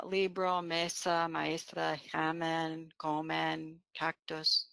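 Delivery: "libro, mesa, maestra, examen, comen, cactus", each stressed on the next-to-last syllable; penultimate stress. Shown as a demonstration. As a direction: list "libro, mesa, maestra, examen, comen, cactus" as LI-bro, ME-sa, ma-ES-tra, e-XA-men, CO-men, CAC-tus. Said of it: "with the penultimate syllable accentuated".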